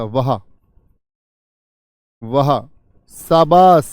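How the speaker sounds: loud, slow delighted cheer; joyful praise. Shown as a demonstration. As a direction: cheer the child on with joy. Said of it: "हर्षबोधक होते हैं जो खुशी को". (ज़ोरदार धीमी खुशी भरी शाबाशी)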